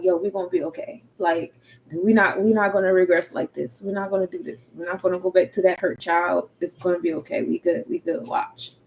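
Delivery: quiet, soothing self-talk; self-comfort softly. Retold or imitated. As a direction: comfort yourself in a near whisper. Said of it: "hug myself and be like".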